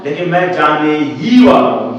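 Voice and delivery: teacher punching the word ही; stress on ही. Shown as a demonstration. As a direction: lean hard on ही to show emphasis. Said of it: "तो ये तो emphatic नहीं हुआ".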